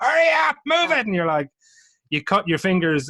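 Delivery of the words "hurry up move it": acted-out shouting, pitched way up. Describing vineyard work, the speaker acts out a guy yelling at workers: retelling a shout. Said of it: "There's a guy shouting at you".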